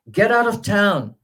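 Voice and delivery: "Get out of town" high and loud, stress on "out"; sheriff's shout, first part high. Shown as a demonstration. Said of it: "the first part is higher".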